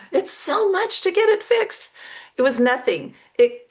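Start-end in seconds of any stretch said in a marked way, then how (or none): 0.1-1.9 much higher, hammed-up lament; mock drama. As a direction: overplay the expense like a tragedy. Mock-dramatic complaint after a gasp.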